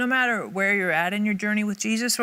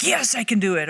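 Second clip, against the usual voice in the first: loud, punched mock confidence; overconfident self-talk; 3 semitones higher, 6 dB louder than usual. People looking at themselves, mock confident. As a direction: cheer yourself on, louder.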